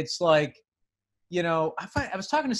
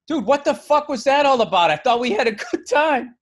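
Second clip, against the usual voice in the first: annoyed hosts; 7 semitones higher, 5 dB louder than usual. Retold or imitated. Angry hosts confront him.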